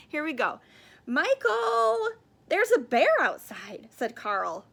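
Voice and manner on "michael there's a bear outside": loud, high-pitched call to his brother; eager kid calling out; excited call. Acted. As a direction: shout the news with excitement. Boy calls brother about bear.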